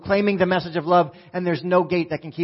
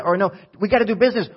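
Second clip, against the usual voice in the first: rising to a loud, higher-pitched peak; fired-up preaching; 5 semitones higher, 4 dB louder than usual. Real, not acted. Preacher fired up, pushing his church to act, loud. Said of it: "I'm a little fired up".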